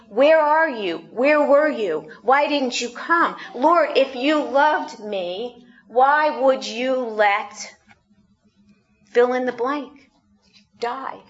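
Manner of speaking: a pleading cry to the Lord; anguished plea. Retold or imitated. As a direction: cry out the unanswered questions. Pleading to God in grief.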